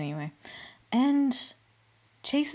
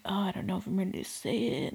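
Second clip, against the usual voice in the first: mock whisper; 7 dB quieter, faster than usual. Mocking hesitant contestants.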